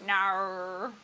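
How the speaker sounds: long, exaggerated Australian "no"; Aussie "no". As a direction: draw out the Aussie vowel. Trying the Aussie no again.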